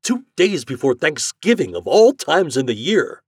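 loud, high, indignant tirade; irate storekeeper. Acted. Storekeeper scolding Homer over wrecked store, irate. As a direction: rant about the losses at full voice.

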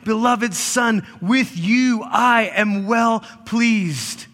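slow, drawn-out voice from above; booming heavenly voice. Acted. Voice from heaven naming the beloved son, slow and booming. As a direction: proclaim it slowly from the heavens. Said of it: "a voice comes booming down from heaven".

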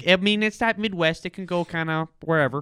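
playful Midwestern vowels; Midwestern accent. Acted. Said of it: "Wisconsin kinda accent".

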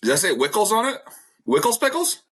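high amused disbelief; incredulous squeal at the label; surprised. Real, not acted. Spotting the pickle jar brand.

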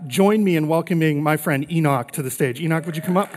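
normal talking voice

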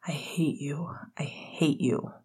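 low, hushed echo; soft, low and haunting, like a remembered voice; cold rejection. A narrator's reading. Echo in Sirius's head after the nightmare, cold and hushed.

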